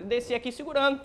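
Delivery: normal talking voice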